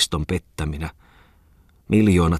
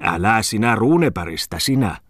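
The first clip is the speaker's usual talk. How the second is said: indignant, higher-pitched rebuke; snapping; 4 semitones higher, 3 dB louder than usual. A narrator's reading. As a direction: snap at him to leave it. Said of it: "silloin kivahti Muttisen Aapeli".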